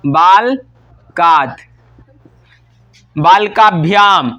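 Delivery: बालकात drawn out very slowly, syllable by syllable; slow dictation. Shown as a demonstration. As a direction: stretch बालकात slowly for students to copy. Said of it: "तो हो जाएगा क्या?". (बालकात को बहुत धीरे, खींचकर बोलें)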